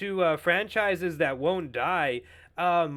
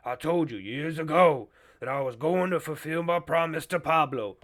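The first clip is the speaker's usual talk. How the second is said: Creole Southern man; 2 semitones lower than usual. Acted. Host reading Vin Diesel's letter aloud, mock Creole Southern accent. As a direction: read it like a solemn Creole Southerner. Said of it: "turning into, like, a, uh, Creole Southern man".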